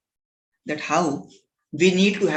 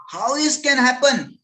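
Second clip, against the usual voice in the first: higher, louder outraged question; very angry; 7 semitones higher, 5 dB louder than usual. Acted. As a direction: demand it in indignant outrage. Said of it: "this lion was very angry".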